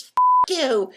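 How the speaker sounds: "Fuck you" hurled high and loud, dropping at the end; mock curse. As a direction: spit out "Fuck you" as a shouted insult ending down. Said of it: "what he wanted me to say was".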